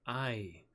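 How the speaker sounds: "Aye." drawn out slowly with lips pulled back. A narrator's reading. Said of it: "He formed the syllable slowly, pulling his lips back".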